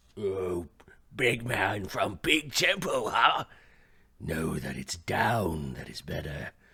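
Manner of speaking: deep, very low monster troll voice. A game master voices a troll jumping into the fight; troll voice. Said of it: "This troll comes jumping over. / so he moves up to here and is dragging the owlbear back".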